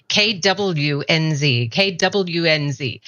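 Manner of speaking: slow drill. Shown as a demonstration. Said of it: "had to sit there and practice".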